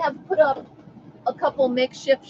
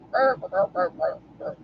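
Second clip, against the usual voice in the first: wordless mock grumble, falling away; grumbling brother impression; 5 semitones lower, 3 dB quieter than usual. Showing viewers how her brother sounds, mock grumbling. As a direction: imitate a nagging brother in nonsense syllables. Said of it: "that's exactly how my brother sounds".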